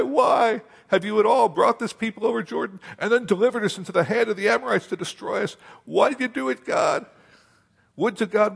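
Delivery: a leader crying out why, breaking toward a shout; Joshua's anguished plea. Acted. Preacher acting Joshua pleading with God in high distress. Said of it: "And Joshua said".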